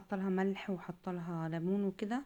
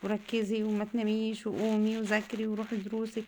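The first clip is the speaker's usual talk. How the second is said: mother imitating herself scolding her daughter, mildly raised; 2 semitones higher than usual. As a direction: replay nagging a daughter to study, mildly. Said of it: "اشتمها وازعق لها".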